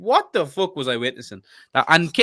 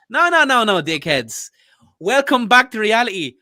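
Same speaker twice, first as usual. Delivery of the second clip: raised-pitch, indignant tirade; real irritation, pitched up; angry rant; 6 semitones higher than usual. Real, not acted. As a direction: cut them down in a heated rant. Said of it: "God, I got, got really angry there".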